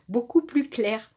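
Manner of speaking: "plus clair" said right through a small laugh; laughing correction. Shown as a demonstration. Reader corrects her slip to viewers with a laugh. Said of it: "Pas beaucoup plus pleur".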